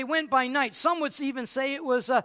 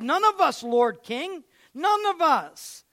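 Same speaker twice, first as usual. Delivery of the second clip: pleading officers; 4 semitones higher, 4 dB louder than usual. Acted.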